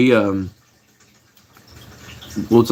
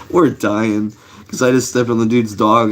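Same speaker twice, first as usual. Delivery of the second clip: real laugh spilling into the words; amused, breaking up at the start; laughing while telling. Real, not acted. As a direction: tell it through leftover laughter. Laughing at his own story.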